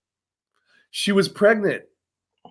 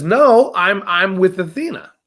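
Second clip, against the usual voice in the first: loud refusal; 3 dB louder than usual. Retold or imitated. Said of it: "He says".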